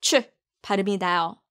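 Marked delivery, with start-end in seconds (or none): 0.0-0.2 short 추 as "chuh"; light clipped model of 추; corrected sound. Shown as a demonstration. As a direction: say 추 with a ch, not "to". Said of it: "to 발음이 아닌".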